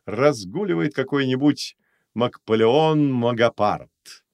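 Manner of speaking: loud, high inspired host; inspired showman. Acted. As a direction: wave the mic and orate. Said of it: "вдохновенно махнул микрофоном". (вдохновенно, громко, как ведущий)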